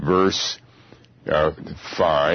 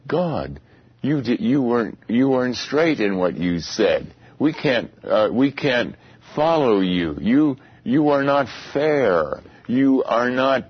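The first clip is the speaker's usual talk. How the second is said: a lightly voiced mock complaint, higher, to God; mocking the churches; 5 semitones higher than usual. Preacher mocks churches complaining God is unfair, higher mock voice. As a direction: play the churches protesting to God, pitched up. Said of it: "what are they saying?".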